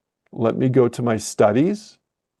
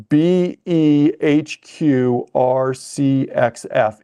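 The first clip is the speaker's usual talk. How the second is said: slow dictation; much slower than usual. Shown as a demonstration. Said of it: "I'll read it to you as well".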